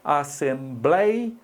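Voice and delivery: assem-blei-a split slowly into syllables. Shown as a demonstration. Teacher sounding out assembleia for the class. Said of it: "olha, assembleia".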